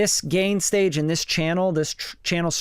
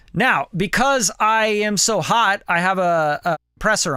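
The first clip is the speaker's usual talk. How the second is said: hot level; 4 semitones higher, 3 dB louder than usual. Shown as a demonstration. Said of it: "I'm pretty hot".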